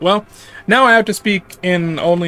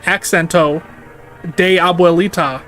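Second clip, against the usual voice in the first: Peggy Hill Spanish. Retold or imitated. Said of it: "Peggy Hill".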